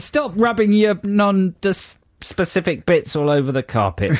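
high squeaky sped-up voice; chipmunk voice. Acted. Camille voice banter continues.

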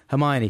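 second "Hermione" as HER-me-own; mispronounced name. Shown as a demonstration. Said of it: "has been pronounced in my head".

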